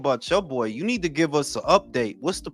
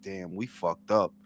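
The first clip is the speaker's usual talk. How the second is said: much lower, softer, slow worried mumble; nervous and quiet; 11 semitones lower, 8 dB quieter than usual. Retold or imitated. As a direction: imitate a nervous trainer losing hope. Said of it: "the more quiet and quiet Bill".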